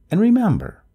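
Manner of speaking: high, loud call up the stairs; calling from downstairs. A narrator's reading. Neighbor's voice trails up from the stairs, calling back. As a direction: call back up as you leave. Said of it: "Her voice trailed up from the stairs".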